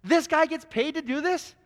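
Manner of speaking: mock the commentator's worthless talk; indignant rant. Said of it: "She says".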